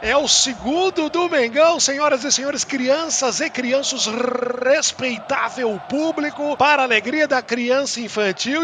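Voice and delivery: ringmaster. Acted. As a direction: announce it like a circus host. Circus-style announcement.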